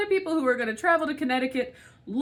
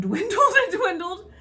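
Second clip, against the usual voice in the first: bitter laugh; 8 semitones higher, 4 dB louder than usual. Real, not acted. Laughs bitterly mid-sentence.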